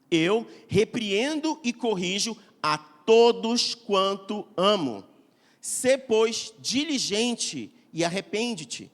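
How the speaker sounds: slow, deliberate Bible reading; slow solemn reading of Revelation; solemn scripture reading. Acted. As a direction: read each word of the verse with weight. Reads Revelation 3:19 aloud.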